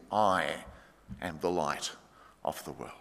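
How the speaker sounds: quiet reverent statement; hushed, awed. Shown as a demonstration. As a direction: let it drop to a near hush. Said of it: "It's brilliant of Jesus".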